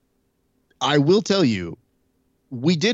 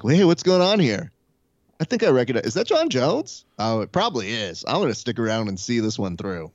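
nosy bystander; 2 semitones higher than usual. Retold or imitated. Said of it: "one dude who goes like".

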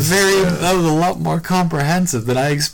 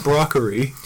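"broccoli" with r for l, Asian-accent imitation; mock Asian accent. Showing a word that's fun to say, mock Asian accent. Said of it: "making fun of the Asian accent".

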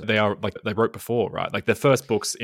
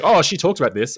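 imitating host; 8 semitones higher, 9 dB louder than usual. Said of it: "You're like".

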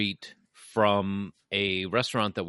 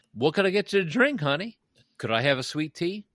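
higher, sweet waitress voice, honey; Southern waitress; 8 semitones higher than usual. Retold or imitated. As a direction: play the friendly Southern waitress. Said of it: "she'd walk up to".

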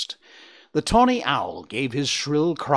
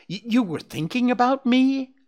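much higher, delighted disbelieving question; cheerful surprise; 14 semitones higher, 5 dB louder than usual. A narrator's reading. Owl hearing Bambi thought of him, cheerful. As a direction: perk up, flattered and thrilled. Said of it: "The owl became cheerful again".

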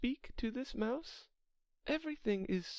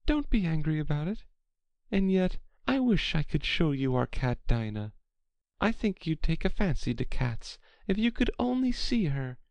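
raised-pitch Alice, placating and fond; soothing; 9 semitones higher, 9 dB louder than usual. A narrator's reading. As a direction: coax gently in a higher character voice. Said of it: "said Alice in a soothing tone".

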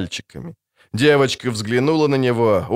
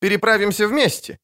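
glad; 9 semitones higher than usual. A narrator's reading. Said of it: "обрадовался поэт".

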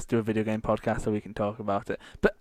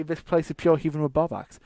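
Scottish phrase; 2 semitones higher than usual. Shown as a demonstration. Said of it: "They say".

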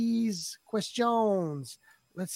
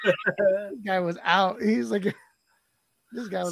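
laughing. Real, not acted.

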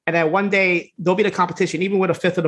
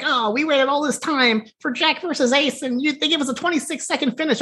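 whiny wrestling fan; 8 semitones higher than usual. Retold or imitated. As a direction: moan like a let-down fan. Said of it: "your typical wrestling fans are like".

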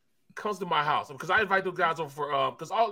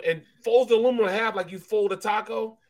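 laughing; 4 semitones higher, 5 dB louder than usual. Real, not acted. Laughing while telling taco story.

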